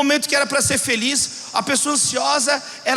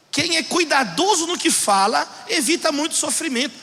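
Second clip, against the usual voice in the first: quicker, lighter restatement of the verse; brisker repeat; 3 semitones higher than usual. Real, not acted. Preacher restates the proverb to congregation, brisker. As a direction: run the verse through without dwelling.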